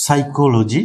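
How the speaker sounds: সাইকোলজি said as "saikoloji", p dropped, with a rising tone; p silent in সাইকোলজি; silent p demo. Shown as a demonstration. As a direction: model সাইকোলজি starting on the s sound. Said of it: "এটার উচ্চারণ যদি আমি করি".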